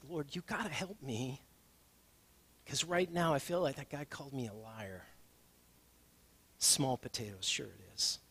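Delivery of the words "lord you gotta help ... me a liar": softly retold plea to the Lord; a hushed plea for help; whispered prayer. Pastor retelling his quiet prayer after the car wash, hushed. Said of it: "And I just kinda whispered".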